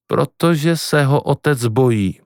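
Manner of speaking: slow, even reply after an outburst; calm. Acted. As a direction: answer calmly and take your time. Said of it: "řekla matka klidně". (klidně, pomalu)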